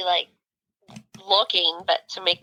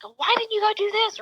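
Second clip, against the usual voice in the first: high-pitched imitation of a critic; mock second-guessing; 12 semitones higher than usual. Admitting she has judged others, high mock second-guessing. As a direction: ask it high, mimicking judgmental questioning.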